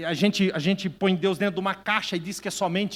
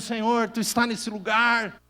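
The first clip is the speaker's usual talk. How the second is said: fervent prayer; 3 semitones higher than usual. Retold or imitated. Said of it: "Eu tava chorando e dizendo".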